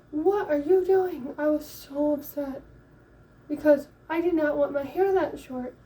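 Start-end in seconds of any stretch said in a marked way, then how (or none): 0.1-1.4 ticked-off demand. Retold or imitated. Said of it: "I was one ticked off girl".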